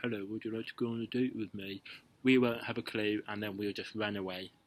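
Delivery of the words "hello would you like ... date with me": slurred, unclear, indistinct mumbling. Showing how a mumbled date invitation can't be understood: mumbled, indistinct. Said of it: "if you're mumbling like".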